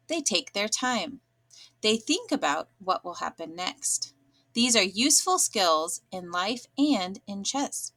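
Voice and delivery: engaging, interesting read aloud; expressive storytelling read. Shown as a demonstration. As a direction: sound like a story, not a script. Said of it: "I'm going to read it with inflection".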